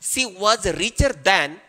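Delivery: slow, deliberate example sentence; slow dictation. Shown as a demonstration. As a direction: read out slowly word by word. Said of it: "otherwise ये sentence wrong हो जाएगा". (धीरे-धीरे बोलकर लिखवाना)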